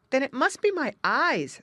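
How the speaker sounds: a sigh in the voice. Acted. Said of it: "sighed Jerry".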